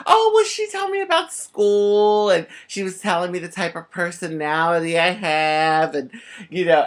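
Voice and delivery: high, breezy innocent voice; innocent dodge. Retold or imitated. Nine-year-old dodging mom's question about the fortune teller. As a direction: play it light to hide the truth. Child innocently hides the truth.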